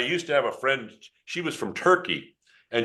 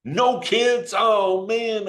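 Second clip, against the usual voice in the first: high, mock-crushed disappointment; dismayed surprise; 9 semitones higher, 4 dB louder, much slower than usual. Real, not acted. Presenter learns no kids came to his demo, dismayed. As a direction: let the pitch jump in dismay.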